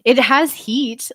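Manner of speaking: slow, strained with a burning mouth; mouth on fire. Real, not acted. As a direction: talk through a mouth on fire. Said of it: "Like, my mouth is on fire".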